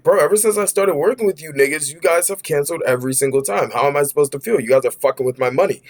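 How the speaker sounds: mock yell at the mother. Narrator tells the mother he finally yelled, mild mock yell. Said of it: "eventually I just yelled".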